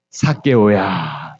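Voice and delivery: low, drawn-out tender call; gentle summons, long last syllable; warm calling by name. Retold or imitated. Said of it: "그의 이름을 따뜻하게 불러주신".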